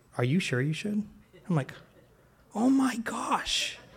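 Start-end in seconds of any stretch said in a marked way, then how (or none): 0.2-1.0 mock sugary, honeyed, very sweet voice. Retelling what his wife asked him, imitating her sweet tone. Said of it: "she said it very sweet".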